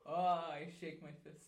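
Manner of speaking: put-on shouted old man grumble; grumpy old man. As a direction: bark it like a cranky geezer. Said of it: "I am an old man".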